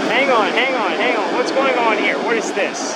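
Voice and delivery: startled, questioning double take; sudden puzzlement. Real, not acted. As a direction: break off, caught by something unexpected. Spots something unexpected on a plane.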